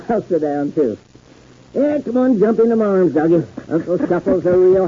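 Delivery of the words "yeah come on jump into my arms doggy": coaxing a dog. Acted. Calling the dog to jump up.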